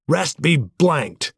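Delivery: slow, emphatic oath, pitched high; curse. A narrator's reading. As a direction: spit out a drawn-out curse. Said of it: "in pain and sorrow at the oath".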